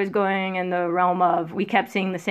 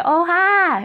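mimicking cat; 9 semitones higher than usual. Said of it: "they love to mimic".

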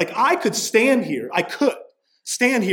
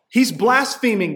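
mock outrage; 5 semitones higher, 4 dB louder than usual. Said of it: "they say".

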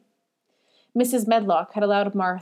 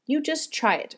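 higher-pitched, light encouragement; urging; 7 semitones higher than usual. A narrator's reading. Martha handing Mary the skipping rope, urging her. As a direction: gently urge the listener on. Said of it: "urged Martha".

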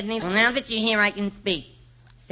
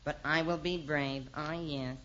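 hushed soliloquy; 4 semitones lower, 9 dB quieter than usual. Acted.

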